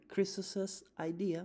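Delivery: slow demo adding an es to "Chris's"; teacher stretches "Chris's" into two syllables; Chris's, extra E. Shown as a demonstration. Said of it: "me invento una E que no existe".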